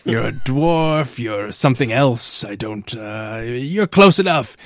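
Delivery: lightly voiced gruff dwarf; a hint of a gruff dwarf weapon. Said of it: "a very gruff kind of dwarven voice".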